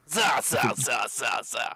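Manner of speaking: loud barked mock-Russian syllables, easing off; mock Russian chant, punched then fading. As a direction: chant a jokey Russian noise. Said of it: "That's Russian".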